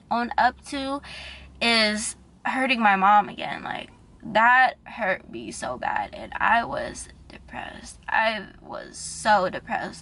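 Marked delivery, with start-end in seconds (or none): 3.6-10.0 slow, fragile near-crying delivery; real tearful confession, fading. Real, not acted. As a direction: drag the words out through real tears. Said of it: "I'm sorry if I'm crying".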